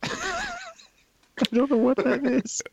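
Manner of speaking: slow words through laughter; cracking up while talking; laughing. Real, not acted. Laughing at the accent.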